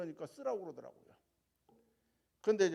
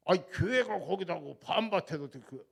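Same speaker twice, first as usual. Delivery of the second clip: Jeolla dialect; 7 dB louder than usual. Retold or imitated. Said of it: "전라도 말에 솔찬히 잘합니다".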